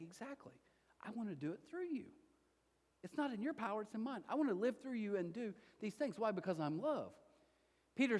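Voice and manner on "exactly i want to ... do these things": soft voice of God. Retold or imitated. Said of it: "And he's like".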